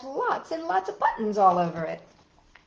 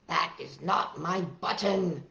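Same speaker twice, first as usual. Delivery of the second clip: Toad's reply; 4 semitones lower, slower than usual. Acted. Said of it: "said Toad".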